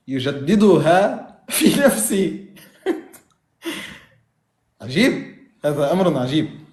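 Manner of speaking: laughing through the words; amused disbelief. Real, not acted. Debater laughing off his opponent's doctrine in amused disbelief. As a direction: chuckle at how absurd the idea is.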